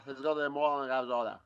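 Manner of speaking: attempted American accent from a foreign speaker. Shown as a demonstration. Driver trying an American accent on the host's request. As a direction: have a go at sounding American. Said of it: "can I hear your best American accent".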